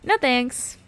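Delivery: curt, cool no thanks; smug dismissive refusal. Pretend. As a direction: brush them off smugly. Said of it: "says no thanks".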